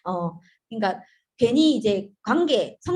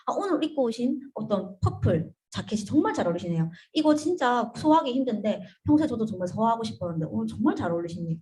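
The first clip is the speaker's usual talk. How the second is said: observant compliment. Shown as a demonstration. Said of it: "이런 이야기".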